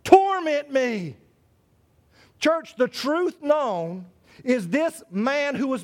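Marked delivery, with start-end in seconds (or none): 0.0-1.2 a louder, drawn-out plea as the possessed man; pleading demon. Retold or imitated. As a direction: beg slowly for mercy, lightly voiced. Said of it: "this is what the demon said".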